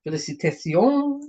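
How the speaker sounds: slow French-accented pronunciation. Real, not acted. Crafter reading the card's foreign congratulations, French accent. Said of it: "I say everything with a French accent".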